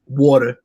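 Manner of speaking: water with no R, New York style. Shown as a demonstration. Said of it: "don't pronounce R's sometimes".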